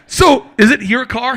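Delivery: can't hold back the laugh; laughing disbelief. Real, not acted. Retelling the delivery guy story, laughing.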